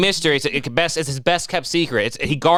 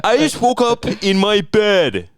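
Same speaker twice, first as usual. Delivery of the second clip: hammed-up freak-out about waking up; mocking panicked friend; 8 semitones higher, 5 dB louder than usual. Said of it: "continues mockery".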